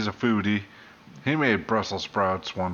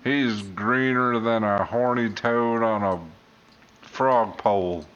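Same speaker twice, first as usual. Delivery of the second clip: put-on country accent; slower than usual. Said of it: "I was just gonna make some shit up".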